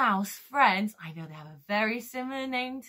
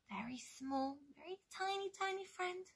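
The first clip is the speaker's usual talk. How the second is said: very soft, rising higher; tiny soft voice; 5 semitones higher, 16 dB quieter, faster than usual. Real, not acted. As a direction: shrink the voice down to tiny. Describing a tiny friend to children.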